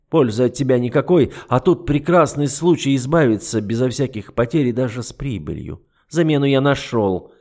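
lightly voiced icy duke, mocking; an understated sneer; a hint of the cold duke. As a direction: toy with her calmly. The duke's cold voice.

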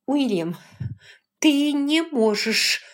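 rising high and loud, slow on the last words; a furious young woman cries out; angry outcry. A narrator's reading. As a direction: throw his name at him, then cry out in protest. Rachel confronts William angrily.

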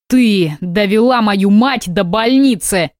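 slow, heavy angry bark at his wife. Acted. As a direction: bark the accusation slowly, blaming her. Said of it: "рявкнул любящий супруг". (медленно, со злостью рявкнуть)

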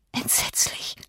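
a breathless, whispered "Entsetzlich"; horrified whisper. Acted. Catherine whispers to Nelly in horror, breathless.

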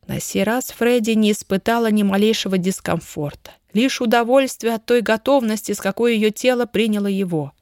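ordinary delivery

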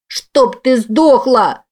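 put-on high, slow, venomous little girl; a child wishing her mother dead; hateful child's snarl. A narrator's reading.

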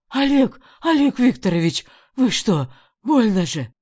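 high, loud cry of pain; pained pleading. A narrator's reading.

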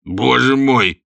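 испуганный возглас, громче; вскрикнуть, задрожав от страха; в страхе. A narrator's reading. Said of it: "воскликнул Бишоп, задрожав от страха". (испуганный возглас губернатора)

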